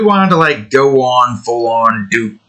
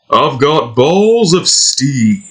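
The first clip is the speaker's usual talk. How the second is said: Duke impression; 3 semitones higher, slower than usual. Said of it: "Trying to do that".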